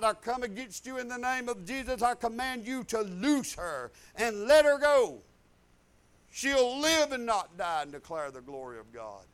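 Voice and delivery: commanding rebuke. Retold or imitated. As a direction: command death to let her go. Pastor retells rebuking death at bedside.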